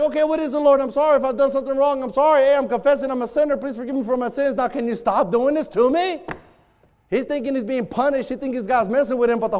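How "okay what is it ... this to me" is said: hurried, higher-pitched mock panic; freaking out. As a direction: babble apologies in acted panic. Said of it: "So he's freaking out".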